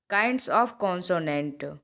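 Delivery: Kinds of vowels drawn out word by word; very slow dictation. Shown as a demonstration. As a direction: spell it out slowly for the notebook. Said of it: "teacher dictates heading". (बहुत धीमे, लिखवाते हुए)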